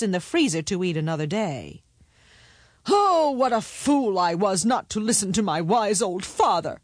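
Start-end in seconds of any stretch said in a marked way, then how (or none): 2.9-6.8 high outcry of regret, strongest on "Oh". Acted. Middle son trapped in the dragon's belly, lamenting. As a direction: cry out the regret in full voice.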